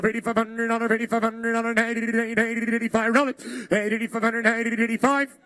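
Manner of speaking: rhythmic rapid auction chant; auctioneer. Acted. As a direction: rattle off the bids like an auctioneer. Auction chant calling bids.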